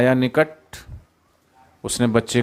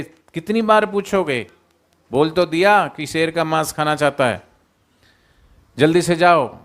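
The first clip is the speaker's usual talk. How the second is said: mock exasperation; 4 semitones higher than usual. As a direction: scold him as if tired of being asked. Jackal wife acting exasperated.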